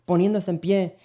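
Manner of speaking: ordinary talk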